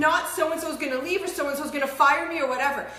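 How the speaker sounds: acted anxious scrambling, words tumbling out quickly; scared out of mind. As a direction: rattle it off as if under threat. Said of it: "scared out of your mind".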